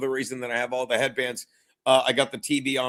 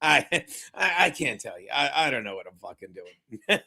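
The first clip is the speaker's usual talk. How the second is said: mock helpless coach; 5 semitones lower than usual. Host imitates the coach with no answer, helplessly stammering. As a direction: imitate him giving up, voice sinking. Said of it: "And he just said".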